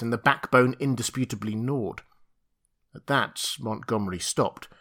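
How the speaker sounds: ordinary delivery, nothing marked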